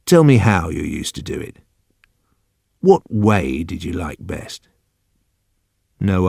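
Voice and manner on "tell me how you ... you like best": low, gentle probing; coaxing. Acted. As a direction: draw the details out gently. Old man coaxes for details.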